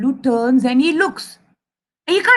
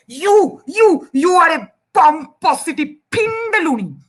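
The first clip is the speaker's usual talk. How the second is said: high, indignant sputtered insult; very angry mouse; 3 semitones higher than usual. Acted. Mouse hurling a made-up insult, high and angry. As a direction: sputter YOU, then fling a silly insult. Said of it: "Mouse is now very angry".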